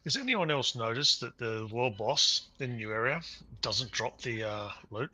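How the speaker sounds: talking while crunching chips; words around a mouthful of chips. Real, not acted. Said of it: "sorry about the crunching".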